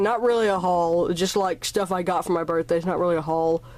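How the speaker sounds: breathless; talking short of breath. Real, not acted. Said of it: "Man, I'm out of breath".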